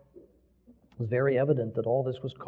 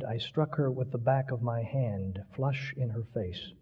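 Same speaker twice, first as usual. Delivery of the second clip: brokenly; 2 semitones lower, 5 dB quieter than usual. Acted. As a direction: speak like each word breaks.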